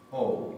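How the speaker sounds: slow "ou" gliding from o to u; full diphthong. Shown as a demonstration. Teacher explaining the accented o. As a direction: draw "ou" out as one diphthong. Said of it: "Es todo un diptongo".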